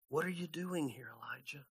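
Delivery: God's voice, soft and breathy, almost no sound; barely there, hushed and gentle; gentle whisper. Acted. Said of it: "came a gentle whisper".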